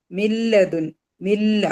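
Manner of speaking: മില്ല with n swallowed into a doubled l; merged without nasal. Shown as a demonstration. Teacher shows merging, മില്ല said as 'mil-la' without nasal. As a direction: go straight from mi to lla in മില്ല, no hum. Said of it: "മണിക്കാണ്ട് ലയിപ്പിക്കുക".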